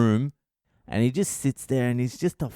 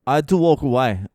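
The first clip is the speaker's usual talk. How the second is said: worked-up; 3 semitones higher, 5 dB louder, faster than usual. Real, not acted. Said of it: "I was having a meltdown".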